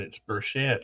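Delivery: Burchett said as bur-SHET; French-style mispronunciation. Retold or imitated. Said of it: "like it's French or something".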